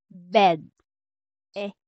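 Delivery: "E" with the vowel of "Bed"; open French è. Shown as a demonstration. Teacher anchoring the sound in an English word, open è. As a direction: model "Bed", then its open "E" alone. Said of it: "in bed".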